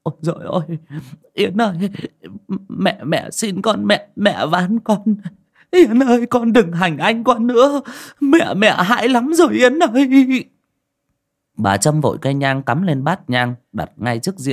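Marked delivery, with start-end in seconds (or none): 0.0-10.4 trembling mother's prayer building to a sobbing cry; tearful praying. A narrator's reading. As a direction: beg the ghost of a daughter, voice breaking. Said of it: "chắp tay run rẩy mà khấn".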